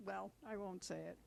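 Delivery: ordinary talk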